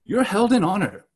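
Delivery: lightly mocking praise; a hint of Paul's irony; understated sarcastic compliments. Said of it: "That's sarcasm".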